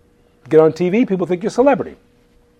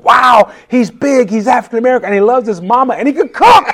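producer's voice much higher and louder, thrilled; imitating the producer; 8 semitones higher, 4 dB louder than usual. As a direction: gush like an excited TV producer. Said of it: "I hear the producer going".

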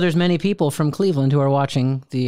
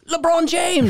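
excited exclamation; slower than usual. Retold or imitated. Waiter excitedly recognizes the city.

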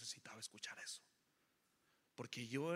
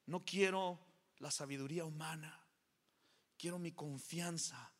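loud, high burst; forceful declaration; 4 semitones higher, 5 dB louder than usual. Real, not acted. Preacher crying out to the church with force. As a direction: hit it hard and loud.

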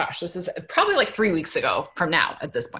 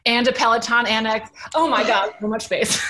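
louder and higher, piling on the awe; excited gush; 4 semitones higher, 3 dB louder than usual. Real, not acted. Woman telling friends about his huge apartment, excited. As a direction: gush about the garage and space. Listing the date's apartment features.

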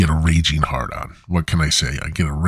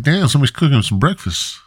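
excited sniffing; 7 semitones higher, faster than usual. Pretend. Sniffing out breakfast smell.

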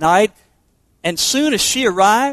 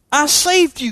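a mildly raised, hurt cry of disbelief; shocked cry; 6 semitones higher than usual. Acted. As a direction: read it as the bitten woman, shocked and stung. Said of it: "cried the woman".

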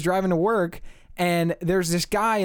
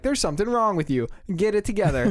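imitated telling-off, higher in pitch; scolding; 5 semitones higher than usual. Passerby to a street yeller, scolding. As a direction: act out a blunt confrontation.

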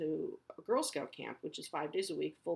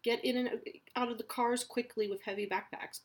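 higher, sing-song prissy principal voice; mocking the principal; 6 semitones higher than usual. Mom parodying the principal's backpack email, high and sing-song. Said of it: "the principal sends the email saying".

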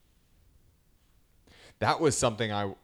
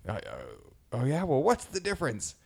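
villain quote; 4 semitones higher than usual. Retold or imitated. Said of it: "so he goes".

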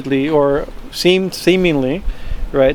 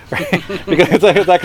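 laughing; 4 semitones higher, faster than usual. Real, not acted. Laughing at the demons' line.

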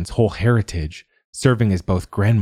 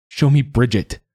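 firm, raised command; demanding; 6 semitones higher, 4 dB louder than usual. A narrator's reading. Siobhan demanding the water show her Bridget, forceful. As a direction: order the water to obey, no room for refusal. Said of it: "she demanded".

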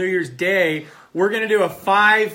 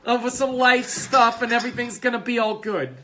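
talk show host; 7 semitones higher than usual. Pretend.

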